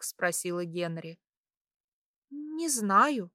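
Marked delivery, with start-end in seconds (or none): 2.3-3.3 higher, playful feigned ignorance; coyly evasive. A narrator's reading. Heroine fibbing to curious Henrietta, coy. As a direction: lift the pitch and play innocent. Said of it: "слукавила я".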